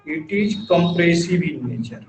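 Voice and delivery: "compressive in nature" drawn out word by word, very slowly; slow note-taking dictation. Shown as a demonstration. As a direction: read it slowly for students to copy. Dictates definition after explaining.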